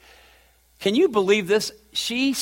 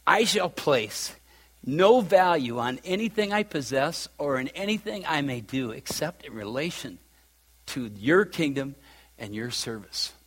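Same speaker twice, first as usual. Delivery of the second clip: real emotion, much softer and fading; emotional; 3 semitones lower, 5 dB quieter than usual. Real, not acted. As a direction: let emotion hold the words down. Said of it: "I'm getting emotional".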